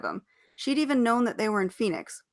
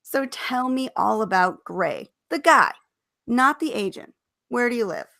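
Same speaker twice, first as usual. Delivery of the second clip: innocent; 3 semitones higher, 3 dB louder than usual. Acted. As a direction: play innocent and eager. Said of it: "gave him her most innocent smile".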